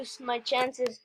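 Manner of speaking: slow whisper; slow, hushed whisper. Real, not acted. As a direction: whisper it so they can't hear. Tense moment hiding from killers.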